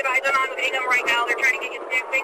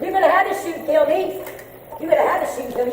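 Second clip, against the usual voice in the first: angry; 7 semitones higher than usual. Real, not acted. Woman defying police.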